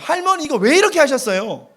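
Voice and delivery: high, loud exclaimed question; questioning grandma. Shown as a demonstration. Preacher setting a dialect quiz, high loud questioning of grandma. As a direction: ask it high and emphatic.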